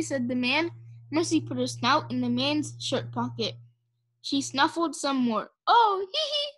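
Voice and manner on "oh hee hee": high little giggle; ticklish giggle. A narrator's reading. Pig in his shirt pocket.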